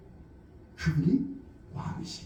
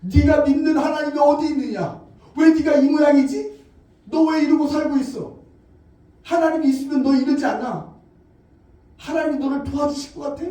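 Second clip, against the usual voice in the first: loud, jeering questions; mocking neighbors, louder; taunting accusers; 4 dB louder than usual. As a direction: needle the suffering believer. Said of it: "사람들이 내게 말합니다".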